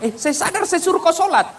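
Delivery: high, sharp, annoyed retort; bickering spouse. Acted. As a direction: snap back in a squabble. Couple quarrels over prayer. (pertengkaran suami istri, tinggi dan kesal)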